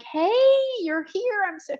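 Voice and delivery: high-pitched, delighted hello; welcoming greeting. Retold or imitated. Trainer greeting a client at the door, welcoming. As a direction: greet them as if thrilled they came.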